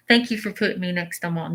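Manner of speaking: imitating an echoed message, only lightly. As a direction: pass on the words as if echoing. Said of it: "very echoed. It's like".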